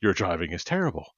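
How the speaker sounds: rising incredulous yell; road rage yelling. Retold or imitated. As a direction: chew out a terrible driver. Yelling at partner's driving.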